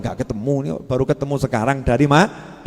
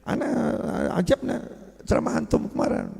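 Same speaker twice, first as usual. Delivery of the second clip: Madurese habib style; 5 semitones higher, 7 dB quieter than usual. Retold or imitated. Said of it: "Dengan gaya Habib Maduranya".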